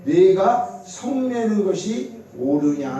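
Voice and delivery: slow, measured Bible verse reading; scripture recitation. Real, not acted. Preacher leads congregation in reading Jonah's verse aloud, slow scripture recitation. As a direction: recite the verse deliberately, drawing out the words. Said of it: "사 장 사 절 시작".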